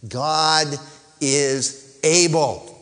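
word by word, with pauses; spaced-out, deliberate statement of faith; slow emphatic declaration. Real, not acted. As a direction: declare it slowly, each word set apart. Slogan set up for congregation.

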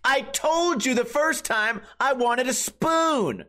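slow and high, smug demand; entitled Karen. Retold or imitated. Karen correcting the bartender, slow, high and smug. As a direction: savour the gotcha, slow and smug. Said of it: "loaded and cocked and ready".

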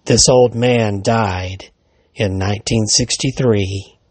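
slow, eerie policeman reveal; slow ominous reveal. Acted. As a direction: let the twist land slowly.

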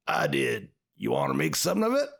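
a hint of a gravelly outlaw, imitating; lightly growled cowboy threat; low harsh voice. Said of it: "in a deep, gravelly voice".

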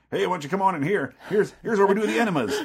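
high, cheery ghoulish host voice; jolly haunt guide. Retold or imitated. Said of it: "he's like".

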